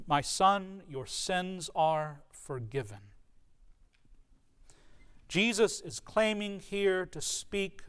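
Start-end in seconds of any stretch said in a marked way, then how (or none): 0.1-3.1 gentle pronouncement. Acted. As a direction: speak it tenderly and slowly. Jesus' words quoted again.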